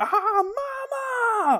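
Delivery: very high, drawn-out, frightened scream. Retelling a comic panel where the character screams for her mother: imitating a character screaming. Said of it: "She's screaming".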